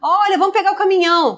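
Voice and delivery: put-on high, quick, playful child-directed voice; adult to toddler. Adult inviting a toddler to get the truck, high child-directed voice. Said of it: "crianças que aprendem a falar".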